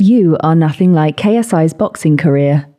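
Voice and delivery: measured American voice-assistant delivery; American Siri. Shown as a demonstration. Host loves the American one, American Siri. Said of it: "you do the American one as well".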